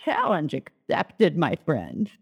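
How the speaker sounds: lightly voiced divine figure, slow; Holy Spirit voice. Preacher quotes the Holy Spirit accepting, slow lightly voiced reply. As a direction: take up a dare slowly, dropping low at the end. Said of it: "the Holy Spirit was like".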